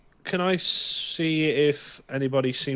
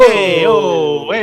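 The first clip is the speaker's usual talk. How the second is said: mock street yell; 3 semitones higher, 9 dB louder, slower than usual. Players riffing on a street voice.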